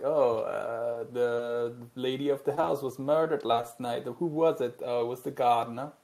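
slow, mock posh murder-mystery accent; weird put-on accent. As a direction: play the stuffy drama butler voice. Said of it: "I don't know why I use that accent".

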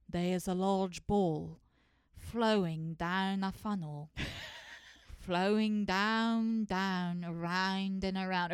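slow, lightly British hypnotic voice; a hint of British meditation tape; imitating British hypnosis. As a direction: lull them along a funnel, slowly. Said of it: "very strange dialect of British accent".

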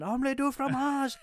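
high, loud cartoon cry; mock shouting. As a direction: call it out high, imitating the shouting hero.

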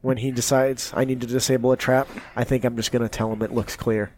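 low, understated grumble; grumbling character voice. Acted. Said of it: "in one of your characters' voices".

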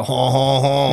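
exaggerated French "haw haw haw"; mock French laugh. Teasing co-host about his French impression, mock French laugh. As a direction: put on a stagey Frenchman's chuckle. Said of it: "You go".

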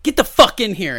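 high, loud retold angry order; cussing teacher. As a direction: order him inside in mock fury. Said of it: "she cussed at me".

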